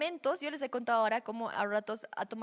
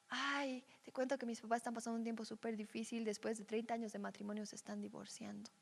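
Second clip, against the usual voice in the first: subdued, softer retelling of a sad confession; imitated tearful confiding; 7 dB quieter than usual. Friend tells dreamer his parents are divorcing, understated tearful. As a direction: confide it quietly, lightly acted sadness. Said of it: "se pone a llorar y me dice".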